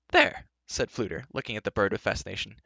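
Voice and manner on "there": excited. Acted. Fluter excited.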